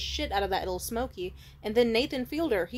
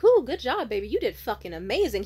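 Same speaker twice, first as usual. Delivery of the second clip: excited cheering; 6 dB louder than usual. Retold or imitated. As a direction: cheer him on like a hype girl. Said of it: "I'd be like".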